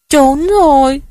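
lightly voiced child, high and tearful; crying little girl. A narrator's reading. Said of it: "Tôi khóc dãy lên".

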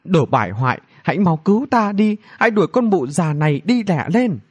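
high-pitched urgent demand for rescue; calling for help. A narrator's reading. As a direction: order him crossly to save you. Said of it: "đành cầu cứu thần nam".

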